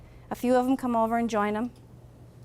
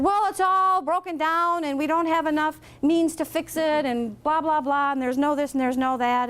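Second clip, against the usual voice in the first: higher, put-upon voice piling on excuses; excuse-making; 4 semitones higher than usual. Acted. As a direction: complain that nothing can be done. Friar's people give excuses.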